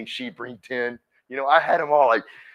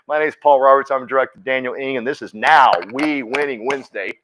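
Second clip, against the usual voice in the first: louder joking host announcement, laughing through it; mock show intro; 5 dB louder than usual. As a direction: hype up a made-up show name for fun.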